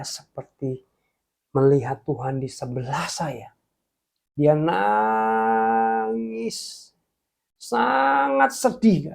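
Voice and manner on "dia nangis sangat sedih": slow voice breaking with feeling; moved. Real, not acted. Preacher recalls seeing God weep, voice breaking slowly. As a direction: let the words crack with grief.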